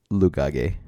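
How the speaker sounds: "lugage" as loo-GAH-gay; joke mispronunciation. Shown as a demonstration. Co-host pitches a silly word for luggage, "lugage" mispronounced loo-GAH-gay. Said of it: "by pronouncing it".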